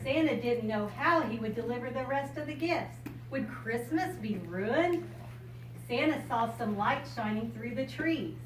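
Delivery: bright storybook reading voice; reading to a child. Acted. Grandmother reading a picture book to a child, bright storybook voice. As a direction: read it out like a picture book for a little one.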